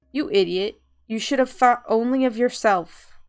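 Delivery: angry scolding. Acted. Friend scolding the player for listening to the voice, angry.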